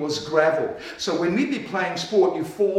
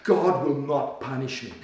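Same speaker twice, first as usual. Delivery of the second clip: defiant; 5 semitones lower than usual. Acted. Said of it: "tell condemnation in the face".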